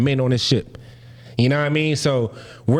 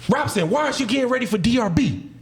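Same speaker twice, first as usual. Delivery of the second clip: mock official in a higher pitch; raised-pitch retold reprimand; questioning shipmate; 7 semitones higher than usual. Shipmate stopping him in the hallway, high mock reprimand.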